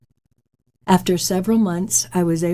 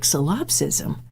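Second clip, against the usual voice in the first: puzzled repeat; 3 dB quieter, slower than usual. Retold or imitated. Mom repeats unfamiliar word.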